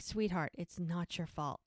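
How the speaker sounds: soft, tender reassurance in a retelling; voiced lightly as gentle comfort; gently comforting. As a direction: softly soothe someone who blames themselves. Retold comforting of guilty patient.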